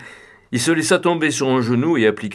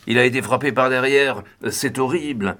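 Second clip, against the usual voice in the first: usual speaking voice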